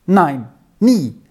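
put-on a girl stung by her friend's words, insisting; offended. A narrator's reading. Amai rejecting Lauri's talk of money, offended and protesting. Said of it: "erwiderte Amai beleidigt".

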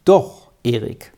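mildly kind reassurance; friendly. A narrator's reading. Pastor reassures the worried boy, friendly. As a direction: answer with understated friendliness. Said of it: "sagte der Herr Pfarrer nun freundlich".

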